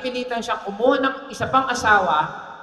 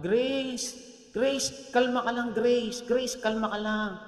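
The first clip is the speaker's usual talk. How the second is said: put-on soothing the baby; 7 dB quieter, slower than usual. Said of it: "yung nagtutulak".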